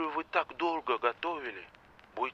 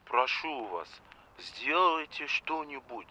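quiet plea; 5 semitones lower, 7 dB quieter, slower than usual. Acted. President pleads with the coach.

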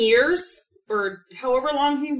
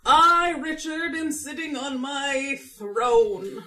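slow theatrical villain menace; 3 semitones higher, much slower than usual. Pretend. Acting out King Richard's opening.

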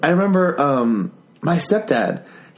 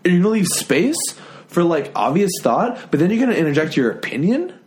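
mildly mock-offended, higher-pitched; lightly put-on comic cadence with rising pitch; imitated joke-telling; 3 semitones higher than usual. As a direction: imitate a stand-up, tapering and leaving space. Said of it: "the exact same way you tell jokes".

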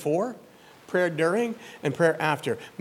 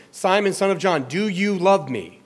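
voicing Jesus; 4 semitones higher, 6 dB louder than usual. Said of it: "A third time".

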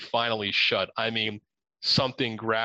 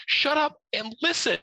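much higher, panicked "shut up and listen"; frantic plea. Retold or imitated. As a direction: hush him in a scared rush. Frightened, hushing the owner.

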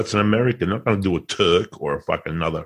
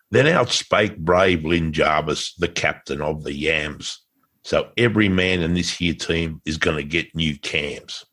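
poem recital. Pretend. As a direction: recite it like an old epic ballad. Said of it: "I wrote it in the style of Lord Babington Macaulay".

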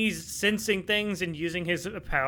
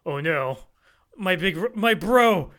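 panicked whine; 4 semitones higher, 6 dB louder than usual. Retold or imitated. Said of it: "So he's like".

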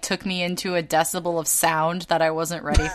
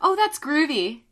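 groovy persona; 7 semitones higher, 4 dB quieter than usual. Retold or imitated. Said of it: "My entire personality changes into".

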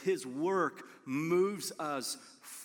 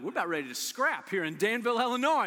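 ready to scrap; 4 semitones higher, 4 dB louder, faster than usual. Retold or imitated. Five-year-old ready to fight.

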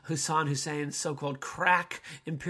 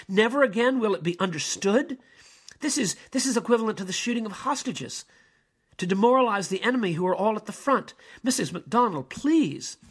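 raised, higher, indignant rebuke; a bishop scolding the secretary with rising outrage; bishop turning on her; 5 semitones higher, 5 dB louder than usual. Acted. Turns on her.

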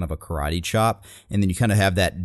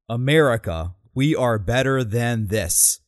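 slow, rising rally line; a hint of a politician waiting for cheers; rally applause line; 3 semitones higher, slower than usual. Quoting the applause line to show its emptiness. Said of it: "And then everyone cheers".

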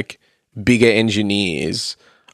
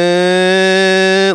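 sung pitch ramp; 7 semitones higher than usual. Retold or imitated. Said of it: "So it'd be like".

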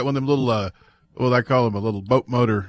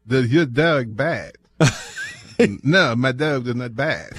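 mock French accent; slower than usual. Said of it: "Rednecks doing French accents".

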